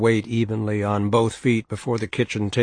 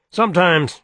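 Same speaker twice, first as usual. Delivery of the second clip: put-on higher, louder, scornful old gossip; heavy, authoritative, mocking her betters; gossipy washerwoman; 8 semitones higher, 5 dB louder than usual. Helm's voice.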